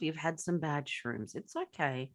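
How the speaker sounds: mock soothing.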